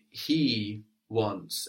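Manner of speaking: "he" stressed, set apart from "wants"; emphatic "he" in a teacher's prompt. Shown as a demonstration. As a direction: put the weight on "he". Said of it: "we're stressing the word for he".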